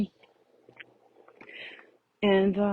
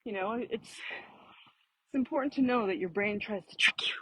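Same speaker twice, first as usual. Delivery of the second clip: winded from walking uphill; out of breath; 5 dB quieter than usual. Real, not acted. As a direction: talk while slightly breathless. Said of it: "That's why I'm kind of winded".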